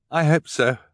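put-on sleepy girl reply; young girl Violet. Violet tired.

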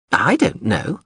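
a touch of the huffy drone; prim drone voice. Acted.

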